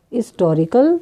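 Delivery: हिस्टोरिकल said as "istorical"; silent h. Shown as a demonstration. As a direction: start हिस्टोरिकल on "is", no h. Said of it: "यहाँ silent है एच".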